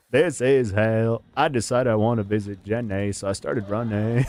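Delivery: lightly voiced Forrest Gump. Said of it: "they beat the Forrest Gump back into me".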